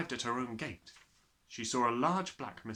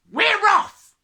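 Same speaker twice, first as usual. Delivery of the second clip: loud, much higher bellowing father; gruff father; 19 dB louder than usual. Acted. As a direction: bark it out like a hurried father.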